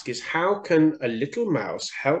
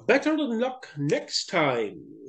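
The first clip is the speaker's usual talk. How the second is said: slow owl voice; 4 semitones higher, slower than usual. Acted. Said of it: "said Owl".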